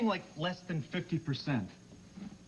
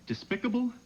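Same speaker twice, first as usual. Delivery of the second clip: mock musing; 8 semitones higher than usual. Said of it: "Poor word choice".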